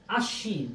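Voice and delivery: "আশ্বিন" as ash-shin, with no b; doubled sh. Shown as a demonstration. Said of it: "তালব্য স্বর উচ্চারণ হয়ে যাচ্ছে double".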